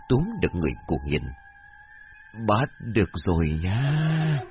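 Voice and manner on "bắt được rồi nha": sinister glee. Acted. Zombie grabbing the girl.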